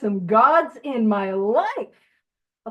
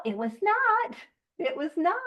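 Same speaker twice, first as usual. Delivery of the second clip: NOT said high and hard, then again softer; emphatic denial; 5 semitones higher, 4 dB quieter than usual. Real, not acted. To the group, jokingly denying the segue, a hard "not". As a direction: lean hard on "not" to shut the idea down.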